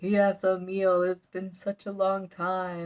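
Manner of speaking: lightly voiced devil, drawn out; bat devil. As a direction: savor the words slowly as a monster. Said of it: "the bat devil's like".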